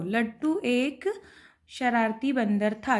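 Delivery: slow and drawn out for writing; dictating each word slowly; slow dictation. Shown as a demonstration. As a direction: spell it out slowly for the class. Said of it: "क्या लिखेंगे?".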